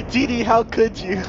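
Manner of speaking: high, slow, giggly reproach; mock reproach. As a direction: act betrayed while laughing. Teasing mock reproach amid laughter.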